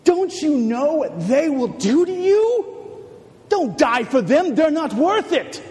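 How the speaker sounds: urgent tempting. Acted. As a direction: push him hard to give up. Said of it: "the devil whispered into his ear".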